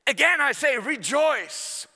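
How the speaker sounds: Paul's letter, read out as a joyful proclamation; proclaiming Paul. Retold or imitated. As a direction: cry out like Paul from prison. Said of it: "the letter where he says".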